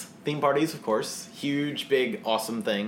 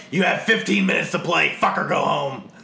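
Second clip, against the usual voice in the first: mock announcement; 3 semitones higher, 5 dB louder than usual. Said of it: "at two thirty you're like".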